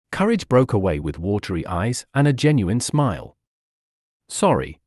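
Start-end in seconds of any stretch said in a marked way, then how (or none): 4.3-4.8 emotional. A narrator's reading. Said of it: "he said with emotion".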